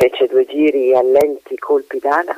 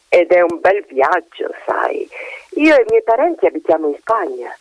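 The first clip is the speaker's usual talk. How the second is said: chatty magpie; 3 semitones higher than usual. Acted. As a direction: chatter like a gossipy magpie perched above. Magpie speaks in story.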